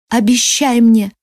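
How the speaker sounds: slow, pressing demand, stress on мне; dying amazon presses her friend: slow insistent обещай мне. A narrator's reading. Dying woman to queen, slow and insistent. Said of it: "настойчиво повторила Ирая".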